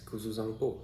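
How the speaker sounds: "Kuzu Zangpo" said the native Bhutanese way; native pronunciation. Shown as a demonstration. Vlogger showing viewers the Bhutanese greeting, native pronunciation. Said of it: "difference in accent when I'm telling".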